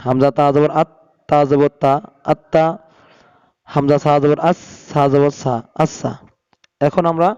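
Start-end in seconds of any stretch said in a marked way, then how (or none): 2.3-2.7 "আত্তা" with the ত held double; "আত্তা" as two joined syllables, at-ta; doubled consonant. Shown as a demonstration. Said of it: "দুইবার পড়িতে হয়". 5.8-6.1 "আচ্ছা" said as as-sa, with a double s; "আচ্ছা" as two joined syllables, as-sa; doubled consonant. Shown as a demonstration. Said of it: "দুইবার পড়িতে হয়".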